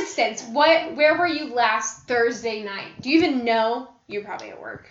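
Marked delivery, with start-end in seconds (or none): 0.5-3.9 tough cop. Acted. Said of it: "That's my good cop, or my bad cop voice".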